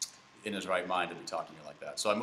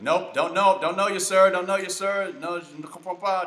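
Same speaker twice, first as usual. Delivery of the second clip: high, loud re-enacted yell; retold yelling back; 12 semitones higher, 10 dB louder than usual. Standing ground against a stranger on the train, retold yelling. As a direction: firmly shout him off, imitating the confrontation. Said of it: "I yelled back".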